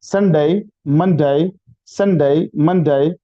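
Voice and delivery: संडे and मंडे ending in a gliding "day"; slow model of संडे, मंडे; day names drilled. Shown as a demonstration. Teacher modelling weekday names for the class, careful pron. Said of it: "teacher demonstrating day names".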